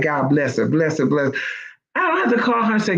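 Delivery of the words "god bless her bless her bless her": tender blessing. Retold or imitated. Blessing her friend fondly.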